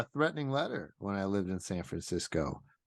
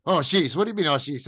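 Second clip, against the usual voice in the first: louder mock indignation; retold indignant comeback; 2 semitones higher, 4 dB louder, faster than usual. Bill Burr going off on the interviewer, imitated indignant comeback. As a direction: throw the "oh, jeez" back as a challenge. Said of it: "starts going off on him".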